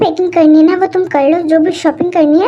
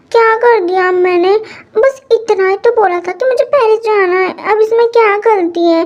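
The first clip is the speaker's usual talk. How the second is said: put-on childish pleading; 3 semitones higher than usual. Daughter begs moms not to be angry. (बच्ची जैसी मिन्नत भरी आवाज़)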